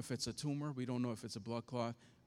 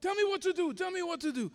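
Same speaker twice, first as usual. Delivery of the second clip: much higher, louder begging; retold screaming plea; 5 dB louder, faster than usual. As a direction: beg her to answer, desperately. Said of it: "screaming on top of the phone".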